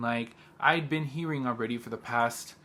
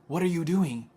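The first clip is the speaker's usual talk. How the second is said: raised exasperated repeat; 5 semitones higher than usual. Real, not acted. She scolds the officers who made her late, exasperated. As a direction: demand it again, fed up.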